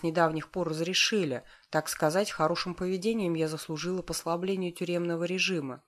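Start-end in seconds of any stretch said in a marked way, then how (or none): none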